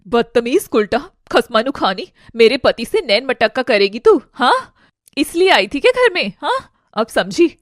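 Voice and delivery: angry, scornful wife confronting a rival; angry accusation. Acted. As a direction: hurl insults and sharp questions. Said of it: "गुस्से से उठती है".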